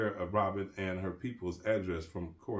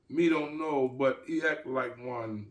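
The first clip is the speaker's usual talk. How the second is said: slight chuckle; 5 semitones higher, 4 dB louder than usual. Acted. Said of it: "with a slight chuckle".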